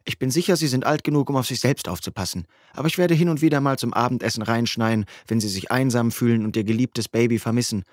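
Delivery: a hint of the sister, ribbing her little brother; lightly voiced sister. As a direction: tease him gently as the sister. Narrator voices big sister.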